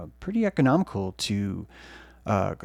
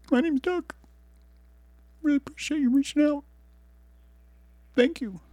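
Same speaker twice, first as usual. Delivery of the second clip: very high, tender little plant voice; a shy plant grateful to be known; plant spirit voice; 11 semitones higher than usual. Acted. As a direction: dream plant Doug thanking the dreamer, squeaky and high. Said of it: "He was like".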